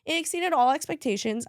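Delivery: real tears for her team; tearful. Real, not acted. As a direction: push the words out while tearing up. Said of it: "Oh, there she goes".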